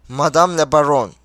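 MADAME LA BARONNE with deliberate weight on each word; emphatic, word by word. A narrator's reading. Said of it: "Her kelimenin üzerine basa basa". ("Madame la Baronne", her kelimeye basa basa)

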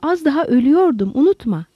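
understated narrated shout, pitched high; indignant shout. Acted. Lowell answers Holmes's accusation, indignantly raising his voice. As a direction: retort with indignation, voice jumping up. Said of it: "diye bağırdı Lowell".

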